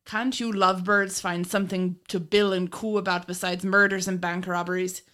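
lightly put-on Irish accent, quoting the boss; a hint of an Irish brogue. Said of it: "Sorry about the Irish accent".

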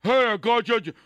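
a high startled yell after a cheery greeting; imitating both sides. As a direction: mimic the jump scare, then a shrieked reaction. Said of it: "he goes".

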